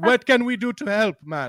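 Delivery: slow, unhurried, drawn-out delivery. Joking about Nigerians showing up at a rally: imitating Nigerians at a rally. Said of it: "a few Nigerians would show up and be like".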